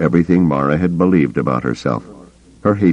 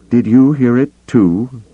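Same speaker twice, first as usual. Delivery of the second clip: tense question; 7 semitones higher, 4 dB louder than usual. Acted. Mara tense in the dark.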